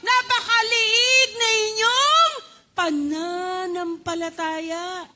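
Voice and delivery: loud, high rebuke fading slow at the end; Jesus rebuking the disciples, loud then slowing; stern rebuke. Acted. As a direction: scold them for their little faith. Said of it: "ng Panginoon".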